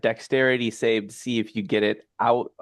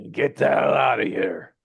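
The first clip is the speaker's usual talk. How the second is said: shouting. Acted. Gargoyle shoos them out.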